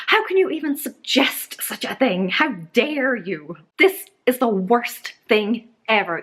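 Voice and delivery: mock melodramatic tirade to her husband; hammed-up overreaction. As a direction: play the overreacting wife, half-joking. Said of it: "and be all like".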